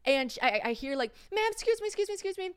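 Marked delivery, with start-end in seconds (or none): 1.3-2.5 high-pitched mock German accent; rough German accent. Stranger stopping a traveller at the airport, rough German accent. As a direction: imitate a German woman calling out, high. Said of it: "I'm gonna fuck up the accent".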